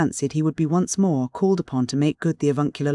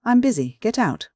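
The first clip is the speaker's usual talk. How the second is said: higher-pitched, irritated brush-off; curt dismissal; 7 semitones higher than usual. A narrator's reading. Busy professor dismissing the visiting skipper, curt and cross. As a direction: send the visitor packing in a raised pitch. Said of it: "was the uncomplimentary reply".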